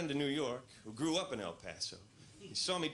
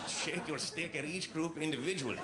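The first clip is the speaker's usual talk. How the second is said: local guy voice; 4 semitones higher than usual. Acted. Local guy explains rules.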